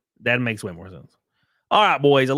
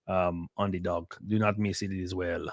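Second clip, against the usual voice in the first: playful put-on Mexican accent, slowing down; silly imitation of a Mexican accent; 3 semitones lower, 6 dB quieter than usual. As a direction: slip jokingly into a Mexican accent. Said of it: "I keep doing a Hispanic Mexican accent".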